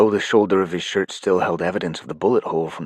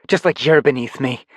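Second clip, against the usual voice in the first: haughty defiance; 6 semitones higher, 4 dB louder than usual. Acted. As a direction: look down on him. Paige defies Life Force.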